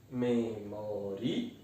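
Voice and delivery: MEMORIA drawn out slowly, broken into syllables. Shown as a demonstration. Teacher showing students how the word separates, MEMORIA slowly syllabified. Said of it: "pode ser separada assim".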